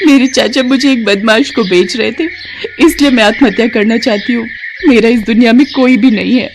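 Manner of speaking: lightly voiced despairing young girl. Rescued girl explaining to Gokul on the bridge, lightly voiced despair. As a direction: tell him why you wanted to die.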